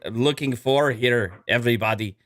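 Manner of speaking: light mock Romanian accent, Dracula-ish; a hint of Romanian accent. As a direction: play at an Eastern European vampire accent. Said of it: "This is the accent".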